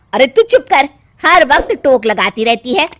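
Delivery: scolding. Acted. Mother-in-law silences Meena.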